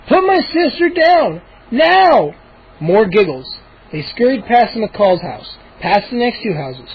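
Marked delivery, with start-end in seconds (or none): 0.1-2.3 high, loud demand; demanding shout. Acted. Boy shouting at the gnomes. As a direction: order them to stop.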